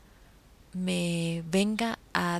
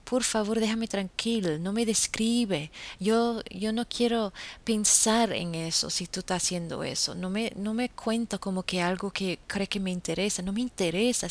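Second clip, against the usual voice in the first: retold firm refusal. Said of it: "y yo digo".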